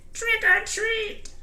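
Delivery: very high, squeaky drawn-out yell; high-pitched mischievous chorus voice; little creatures' yell. A narrator's reading. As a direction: call out like small goblins, loud and piping. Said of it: "and they yelled".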